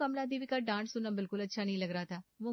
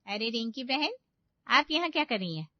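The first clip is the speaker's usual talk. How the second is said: surprised call; 5 semitones higher, 6 dB louder than usual. Acted. Mother catches nosy neighbour.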